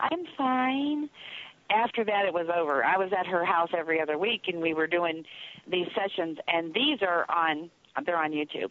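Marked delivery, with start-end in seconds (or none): 0.0-1.1 put-on tiny little child's voice, pitched up. Retelling the little voice answering her aunt over the ghost box, small child's voice. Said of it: "this little voice went".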